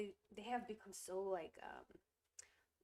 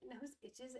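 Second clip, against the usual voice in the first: whisper; 4 semitones higher, 6 dB quieter than usual. Real, not acted. Whispered aside.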